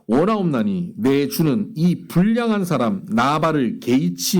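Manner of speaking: measured recitation of scripture from the pulpit; scripture reading. Acted. Reads scripture aloud.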